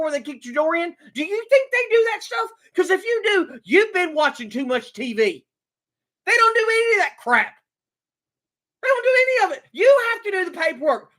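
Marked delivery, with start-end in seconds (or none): 6.2-11.1 indignant. Real, not acted. Ranting about cops.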